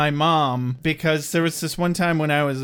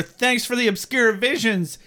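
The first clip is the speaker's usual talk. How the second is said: mock yelling; 4 semitones higher than usual. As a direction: pretend to yell up into the air. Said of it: "yelling into the air".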